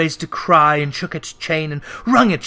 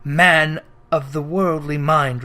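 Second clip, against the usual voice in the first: ghostly voice; 2 semitones lower, slower than usual. Acted. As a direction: speak from beyond the grave. Ghost voice held.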